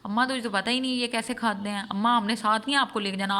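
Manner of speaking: mock rude child. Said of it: "ان کو ہی کہہ رہی ہے".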